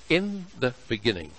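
"in" weighted, "the beginning" falling off; stress on in. Shown as a demonstration. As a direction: lean on "in" in "in the beginning,". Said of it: "the emphasis there falls on the word "in".

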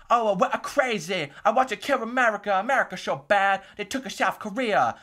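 put-on loud, high caricatured Asian accent; hammed-up cartoon Asian accent, shouted high; Trey Parker's mock Asian accent. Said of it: "That's my impression of Trey Parker's impression of Asian people".

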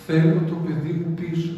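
a grieving mother shouting to God; loud anguished cry. Acted. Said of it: "Φώναξε".

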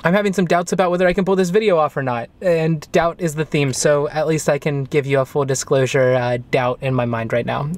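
talking while chewing gum; words around a wad of gum. Real, not acted. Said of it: "there's gum in my mouth".

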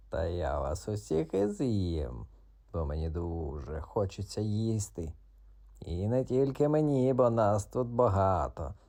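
frighten the frog on purpose; sinister cat. Acted. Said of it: "зловісно сичав кіт".

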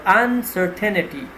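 uncertainty with the weight on CER, the second syllable; stress on the second syllable. Shown as a demonstration. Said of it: "the stress would be on the second syllable".

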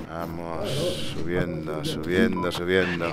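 low, soft, careful murmur; hushed tension. Real, not acted. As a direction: keep it low while creeping upstairs. Creeping upstairs in game.

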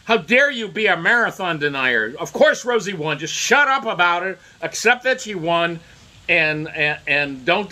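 mock media voice. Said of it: "the media would be saying".

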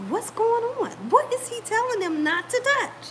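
high-pitched puzzled questioning; acted-out confusion, lightly played; mild bafflement. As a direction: wonder aloud, voice lifted. Acting out her own puzzlement.

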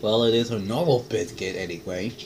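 talking while chewing; mouth full. Real, not acted. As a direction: through a bite of food. Seen 2: Holds bitten biscuit at mouth, cheeks working, lips closed between words.

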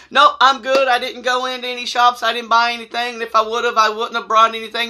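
high-pitched, run-on denials; over-explain in a mock-flustered voice; nervous rambling. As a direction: babble excuses without stopping, retold. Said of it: "I'm just rambling on".

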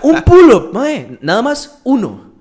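cracking up over the pull-up line; laughing mock disbelief. Real, not acted. Laughing at his own pull-up taunt, high-pitched. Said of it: "por eso yo hablo así".

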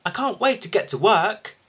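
high-pitched eager reply; lifted, keen young loader voice; calling back. A narrator's reading. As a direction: call it back keenly. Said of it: "Jack called back".

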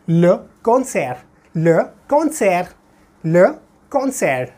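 le concert as French luh kon-SAIR, t silent; le concert, French, no final t; French pronunciation. Shown as a demonstration. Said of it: "pronounce करना है तो कैसे करूँगा".

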